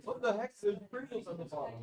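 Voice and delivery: surprised. Real, not acted. Finding Pringles at the bottom.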